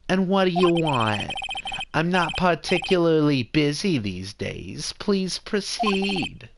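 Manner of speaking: swooping, self-important Jewish mother. Acted. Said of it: "I'll definitely do that voice a little bit".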